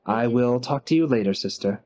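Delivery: a hint of a courteous businessman; brother figure. GM voices brother Ruprecht.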